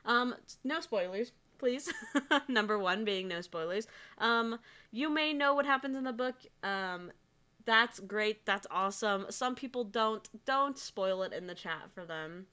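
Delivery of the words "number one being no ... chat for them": muffled mic sound. Real, not acted. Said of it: "I'm slightly muffled".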